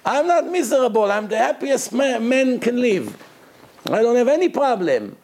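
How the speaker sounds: high, forceful insistence; a retold rebbe's fervent protest; emphatic protest. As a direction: bang the table and insist. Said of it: "he banged on the table and he said".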